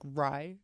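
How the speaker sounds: "rye" given as the mistaken sound of R A Y; American-style vowel. Shown as a demonstration. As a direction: say "rye" low and quiet as an example. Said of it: "Americans pronounce, like, the R A Y as".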